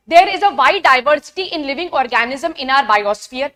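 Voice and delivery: reads each English word slowly and deliberately; measured read-aloud pace for students to follow; slow textbook reading. Acted. Teacher reading the NCERT line to her class, slow and deliberate.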